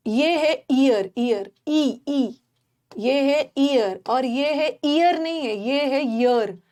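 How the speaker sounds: ईयर drawn out slowly, each take distinct; slow careful model. Shown as a demonstration. Teacher modelling ईयर slowly for confused students. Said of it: "pronunciation सही करिए".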